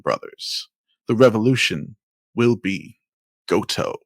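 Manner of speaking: measured spoken-word recitation; deliberate poetic cadence with pauses; bassy spoken-word poem. Acted. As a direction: recite it like a solemn protest poem. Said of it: "nice bassy voice".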